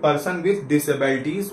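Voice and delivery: slow, word-by-word reading of the full form. Shown as a demonstration. Teacher expanding an acronym slowly for students. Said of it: "पीडब्ल्यूडी".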